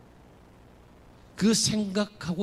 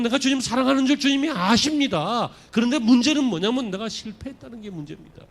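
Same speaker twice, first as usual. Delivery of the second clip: louder, higher, pleading confession; Peter's earnest cry; 5 semitones higher, 4 dB louder than usual. Acted. Peter answering Jesus by the sea, loud and earnest. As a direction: declare it out loud, pressing. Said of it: "그러나 베드로는".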